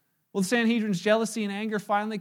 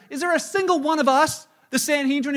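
scornful priest; 5 semitones higher, 4 dB louder than usual. Retold or imitated. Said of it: "he said to the".

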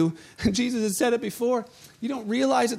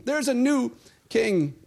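slower, calm repeat; slow, settled restatement; slower than usual. Shown as a demonstration. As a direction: let it land slowly and simply.

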